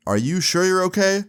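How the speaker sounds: high, rising, imitated teacher's probing; probing question. Teacher doubts the stoned student is fine, acted probing question. Teacher probes whether he's okay.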